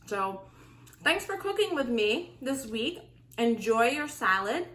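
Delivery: talking with a mouth full of food. Real, not acted. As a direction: speak through a mouthful of salad. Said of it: "I'm talking with my mouth full".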